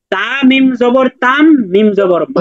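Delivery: teacher's syllable-by-syllable spelling with "তাম" drawn out; বানান করে পড়া. Shown as a demonstration. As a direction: spell it out slowly, holding "তাম", then "মা". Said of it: "এখানে আমরা কিভাবে পড়বো". (ধীরে বানান করে "তাম" টেনে, তারপর "মা")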